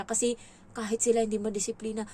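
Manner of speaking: usual speaking voice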